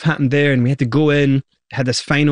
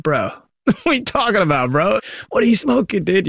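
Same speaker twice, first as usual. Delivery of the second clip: laughing, much higher mock-incredulous Scottish rapper voice; laughing in character; 7 semitones higher than usual. Band members laughing off the label lawyer in character, Scottish rapper voice. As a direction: brush it off with a laugh, pitched well up. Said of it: "we were just in character".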